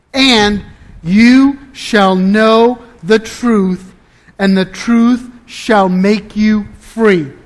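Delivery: scripture reading. Acted. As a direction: read the verse out with measured pauses and weighty key words. Reads scripture aloud to congregation.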